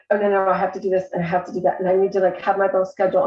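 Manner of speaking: hurried, anxious run-through of chores; anxious rush. Retold or imitated. Waking up stressed about her schedule, hurried and anxious. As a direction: rush to list everything you must do. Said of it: "I just felt that".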